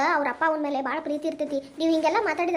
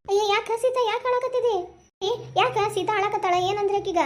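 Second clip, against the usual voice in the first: higher-pitched worried questioning; concerned mother, pitch raised; alarmed concern; 4 semitones higher than usual. Acted. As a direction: ask anxiously why your daughter is crying. Mother finds daughter crying.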